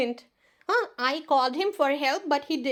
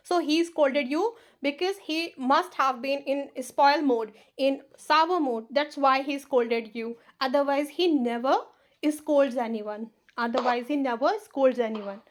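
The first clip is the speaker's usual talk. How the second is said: slow, deliberate model answer; teacher's model sentence; much slower than usual. Shown as a demonstration. Teacher models the answer for her students, slowly and deliberately. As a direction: say it slowly, phrase by phrase.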